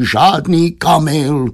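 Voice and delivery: drawn-out pleading protest; wailing husband. A narrator's reading. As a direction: whine for some peace, dragging the words. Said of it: "zakvílel obchodník".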